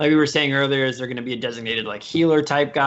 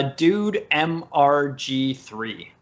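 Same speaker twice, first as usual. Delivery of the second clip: announcer voice; much slower than usual. Acted. Announcing next clip's gamertag.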